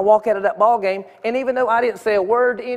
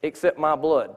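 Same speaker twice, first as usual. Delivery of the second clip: gentle voice of God; 4 semitones lower, 4 dB quieter than usual. Retold or imitated. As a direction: say it gently, like God calling a lost man. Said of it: "I just felt God showing me".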